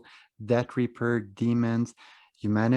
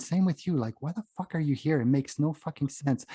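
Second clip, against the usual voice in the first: mildly indignant, higher-pitched retelling; retold confrontation; 6 semitones higher than usual. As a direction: replay challenging someone, pitch raised.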